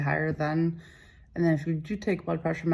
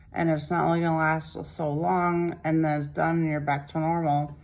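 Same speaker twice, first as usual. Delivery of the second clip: lisping from dental numbness; numb mouth lisp. Real, not acted. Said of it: "so I have, like, a lisp".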